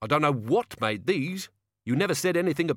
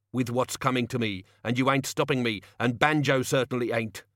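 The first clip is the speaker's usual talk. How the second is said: angry threat; 3 semitones higher than usual. Acted. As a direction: threaten him with the crowbar. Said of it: "he said".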